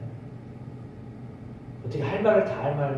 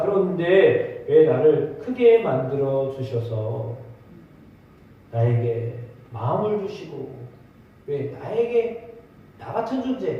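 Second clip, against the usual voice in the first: Job lamenting; 2 semitones higher than usual. Retold or imitated. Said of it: "그 말이에요".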